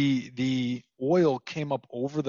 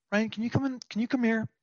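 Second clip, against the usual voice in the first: imitating mom's unhurried, higher-pitched call; calm; 8 semitones higher, much faster than usual. Mom calling her son in from hockey, calm. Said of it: "she said it so calmly".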